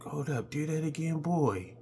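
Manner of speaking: put-on girl voice. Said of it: "she was like".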